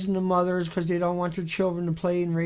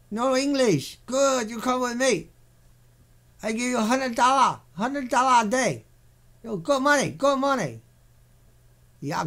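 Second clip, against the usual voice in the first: a lightly voiced, mock friendly boss in broken English; sarcastic broken-English recruiter; 3 semitones higher than usual. Lightly mocking a recruiter luring a worker to the plant. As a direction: sweet-talk the worker with fake cheer. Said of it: "I'm being sarcastic".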